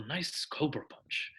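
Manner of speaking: soft, slow, unruffled call; calm commentary. Retold or imitated. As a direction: imitate a calm commentator, easing through it slowly. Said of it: "because I say it so calmly".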